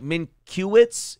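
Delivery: "Minkiewicz" slowly, as a questioning guess; "Minkiewicz", drawn out and unsure; tentative mispronunciation. Acted. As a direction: sound out "Minkiewicz" as min-KYOO-its. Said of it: "where you're trying to pronounce".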